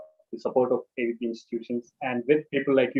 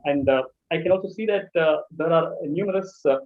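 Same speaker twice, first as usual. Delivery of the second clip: breaking up, frozen call; choppy audio dropping out; bad connection; 3 semitones higher than usual. Real, not acted.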